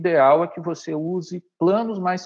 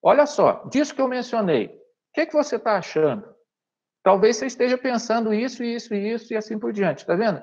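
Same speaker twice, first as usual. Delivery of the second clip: direct chat with viewer; 5 semitones higher than usual. Shown as a demonstration. Teacher breaking the fourth wall to the viewer, lively and higher. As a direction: stop the viewer and pull them in, upbeat. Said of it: "E pra isso você pode falar, ó".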